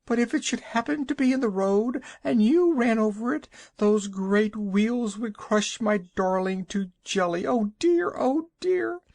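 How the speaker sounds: very high, tearful fretting; anxious wailing. A narrator's reading. Mother frets to travellers about her child. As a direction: fret and wail as if the worst has happened.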